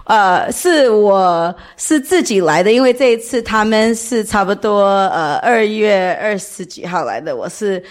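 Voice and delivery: non-native Mandarin, halting and careful; foreigner speaking mandarin. Real, not acted. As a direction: speak Mandarin as a learner, searching for words. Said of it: "我中文不太好".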